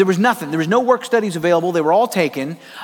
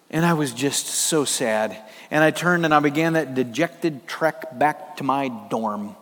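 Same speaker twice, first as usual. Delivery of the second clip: dejected; 6 semitones lower, 4 dB quieter than usual. Retold or imitated. Preacher to congregation, remembering missing the bus, low and dejected. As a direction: let the sadness drag every word. Dejected walk back to dorm.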